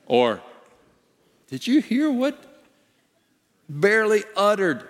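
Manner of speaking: high, scandalised angel gasp; a judge appalled at a poor prayer; mock shocked angel. Angel judge mocking a weak prayer, high shocked.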